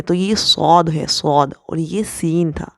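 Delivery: صاد said thick, not like سین; full heavy s in صاد; heavy saad. Shown as a demonstration. Teacher contrasting صاد with سین. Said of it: "صا کی آواز ایسے نکلنی چاہیے کہ سین کی آواز نہیں آنی چاہیے".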